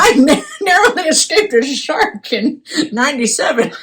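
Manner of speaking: put-on old sea duck telling tales; a wise old duck remembering; rubber duck voice. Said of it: "That's my rubber duck voice".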